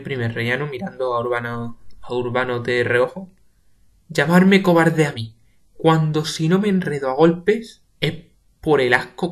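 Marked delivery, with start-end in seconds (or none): 4.1-9.3 louder outraged; offended outburst; indignant. Acted. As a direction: rage to himself. Pepe indignant.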